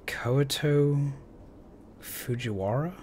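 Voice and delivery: a breathy whispered name; whispering. Acted. Reading name, unsure.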